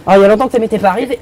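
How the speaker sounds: camp character with a lisp. Acted. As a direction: lisp every s sound. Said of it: "un cheveu sur la langue".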